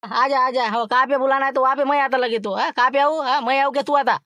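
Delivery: high, loud put-on thin voice; Laxman's thin voice. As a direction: squeeze the voice thin and high to pass as someone else. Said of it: "बरोबर बारीक आवाज काढतो".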